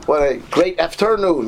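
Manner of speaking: "afternoon" oddly accented on the wrong syllable; wrong-syllable stress. Shown as a demonstration. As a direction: put a funny, misplaced accent in "afternoon". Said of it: "he's sounding, saying everything funny".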